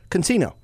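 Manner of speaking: "casino" with an added N; girlfriend's mispronunciation. Retold or imitated. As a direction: say "casino" as con-SEE-no. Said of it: "could not say casino".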